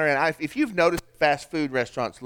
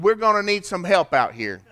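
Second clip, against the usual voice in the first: booming voice; 3 semitones higher, 4 dB louder than usual. Retold or imitated. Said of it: "he said it with a booming, rounded off voice".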